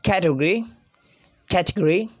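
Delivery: British "category" with short "-gree" ending; British pronunciation. Shown as a demonstration. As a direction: reduce the "-gory" in "category". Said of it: "British people say".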